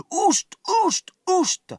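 put-on high, piercing old woman's shriek; shrill shriek. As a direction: screech it out at the top of the voice. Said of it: "quelqu'un hurlait".

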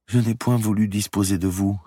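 put-on high, gentle voice of a sick girl; frail young woman. A narrator's reading. Sick girl pleading with Guccio to stay, frail. Marie's voice in story.

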